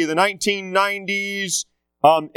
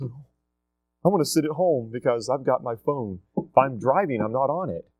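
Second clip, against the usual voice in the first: mimicking a bored teenager, slow and softer; mock teen, low-key and unbothered; lazy teen voice; 3 semitones lower, 4 dB quieter than usual. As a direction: drawl it like a kid glued to the phone. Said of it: "And kids just".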